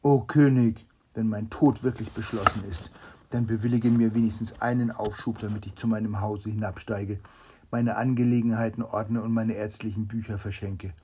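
loud, urgent appeal to the king; calling out. Acted. Doctor calling to the king before the sword falls, loud and urgent. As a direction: cry out, then press your request. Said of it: "rief der Arzt".

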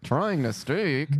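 slow, lips barely moving; words through clenched teeth; ventriloquist voice. Shown as a demonstration. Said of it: "ventriloquist voice".

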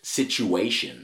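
"Situation" repeated very slowly, syllable by syllable; careful enunciation. Shown as a demonstration. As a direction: stretch out "Situation", every sound clear. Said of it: "really enunciate it".

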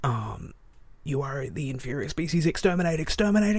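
hint of a ranting Dalek; booming arrogant alien overlord. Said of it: "the Dalek is ranting".

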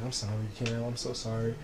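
very soft, retold sympathy; hushed condolence. Aunt phoning grieving nephew to console him, hushed sympathy.

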